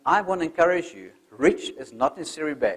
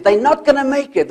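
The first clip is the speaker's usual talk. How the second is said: high, loud jeering crowd; the crowd roaring doubt at the climbing frogs; 9 semitones higher, 8 dB louder than usual. Acted. Roar of the crowd.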